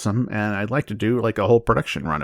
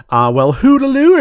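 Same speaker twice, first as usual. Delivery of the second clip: high singsong hello; high silly greeting; 9 dB louder than usual. Acted.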